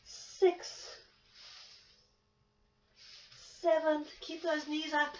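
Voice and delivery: loud, punchy count-off; barking gym coach. Real, not acted. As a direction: bark the cues out to the class. Instructor counts reps to class.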